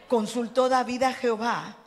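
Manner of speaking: usual speaking voice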